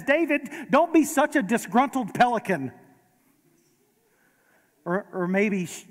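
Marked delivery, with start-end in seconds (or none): 0.0-2.7 a hint of Moira's grand scolding, a touch higher; lightly voiced theatrical mother; light Moira Rose. Preacher quoting a TV mother scolding her son, lightly voiced. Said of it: "and she says".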